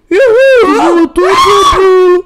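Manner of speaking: high, loud whoop of laughter; gleeful shout. Real, not acted. Laughing at his friend's fall, a high loud whoop.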